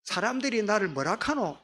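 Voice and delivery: lightly put-on Gyeongsang accent; a touch of southeastern Korean Gyeongsang speech; Gyeongsang dialect. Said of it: "우리 경상도 사투리면".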